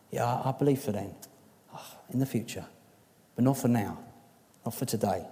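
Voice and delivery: a hint of Martha's flat resignation, trailing off; resigned Martha. Preacher voicing Martha to the church, mildly resigned. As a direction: say it as if hope is gone. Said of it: "she sounds kind of resolute".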